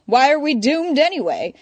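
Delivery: high, loud foppish lilt. Acted. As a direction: play the idle rich fop. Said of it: "far more fop in his manner".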